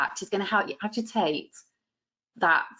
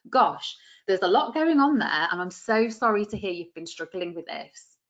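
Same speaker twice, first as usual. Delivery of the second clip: sincere. Shown as a demonstration. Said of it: "make it sound really sincere".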